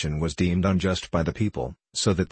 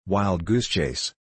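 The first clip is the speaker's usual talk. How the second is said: slow croaked grumble; croaking; slower than usual. A narrator's reading. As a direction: croak it out slowly. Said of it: "croaked he with the wooden leg".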